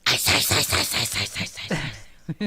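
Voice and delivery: imitating a toddler saying ice; little kid chanting ice. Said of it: "That's how she said ice cream".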